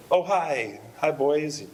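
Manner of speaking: put-on high-pitched phone greeting to the kids; Aunt Gail. Aunt phoning her young nephews, imitated high-pitched greeting. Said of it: "it's your Aunt Gail".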